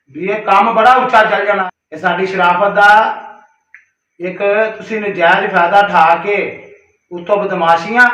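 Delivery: rising anger at the threats; angry warning. Real, not acted. Man warning the brother-in-law about threats, angry and loud.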